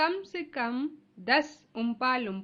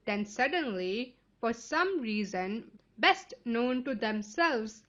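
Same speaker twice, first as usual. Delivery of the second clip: slow, measured story narration; unhurried reading aloud for listeners; much slower than usual. A narrator's reading. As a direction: read it slowly, phrase by phrase.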